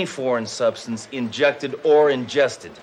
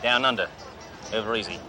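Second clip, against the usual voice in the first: fake Australian accent. Undercover cop posing as a rich car dealer, in a hammy Australian accent. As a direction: play a cocky Australian tycoon in a put-on Australian accent. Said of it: "Name's Crocodile Bruce".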